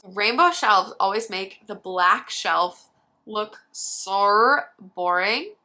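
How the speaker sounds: put-on slow, drawn-out Australian accent; mock Australian accent. Roasting rainbow shelves in a mock Australian accent. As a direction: drag out so boring in an Aussie accent. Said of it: "That's my Australian accent".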